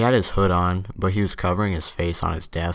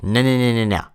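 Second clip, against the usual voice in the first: higher, louder rapid-fire no's; acted angry refusal; 4 semitones higher, 5 dB louder than usual. Teacher rejects George's apology, mock angry. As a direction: cut off the apology in mock outrage.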